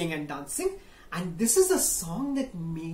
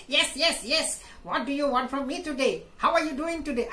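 parrot voice; 6 semitones higher, faster than usual. Acted. Parrot replies.

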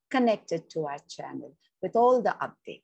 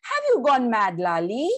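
higher, louder sharp rebuke; scolding rebuke; 5 semitones higher, 6 dB louder than usual. Acted. Elderly neighbour stopping Ma from hitting child, sharp rebuke. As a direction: pull her up short, stop her hand.

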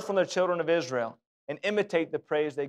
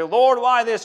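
self-pitying whine; 6 semitones higher, 6 dB louder, slower than usual. Retold or imitated. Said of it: "have a pity party for ourselves and say".

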